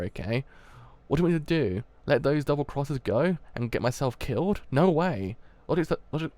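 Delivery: put-on young gangster lashing out at his worried friend, angrily; angry outburst. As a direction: snap back in frustration. Acted quarrel, Ash lashes out.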